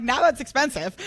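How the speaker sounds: high, loud laughing comment. Real, not acted. Owner laughing about pricey salami for dog pills, high laugh. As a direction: laugh out the complaint.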